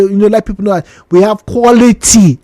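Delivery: quality given the weight; emphasis on quality. Shown as a demonstration. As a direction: stress on quality. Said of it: "emphasis on the word quality here".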